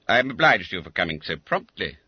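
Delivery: gracious. Acted. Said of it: "said Mister Quelch graciously".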